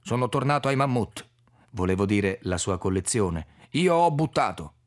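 put-on an elderly foreigner fumbling for Italian; a hint of an old Czech paleontologist; Orlik's broken foreign Italian.

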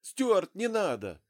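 high, loud pleading cry; frightened gasp. A narrator's reading. Wife begs her husband to drop the gun, frightened cry. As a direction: gasp it out in fear. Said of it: "охнула женщина".

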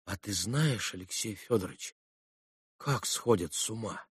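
quiet voice. A narrator's reading. Ivan asking Alyosha about madness, quiet. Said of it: "совсем вдруг тихим".

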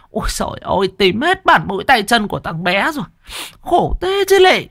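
high, fast aggrieved lament; aggrieved mother wailing over her beaten son; wailing village mother. Acted. Mother complaining about beaten son.

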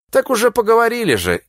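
быстро и высоко, искренне изумлённо; искренне изумиться; искреннее изумление. A narrator's reading. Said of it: "искренне изумился Никифор". (искренне изумлённо)

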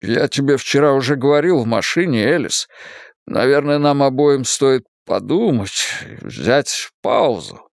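slowing, careful suggestion; cautious man proposes a pause. Acted. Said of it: "осторожно предложил Стивен".

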